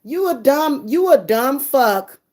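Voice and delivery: angry emphatic insult; angry outburst. Real, not acted. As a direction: spit it out at him. Angry rant at father.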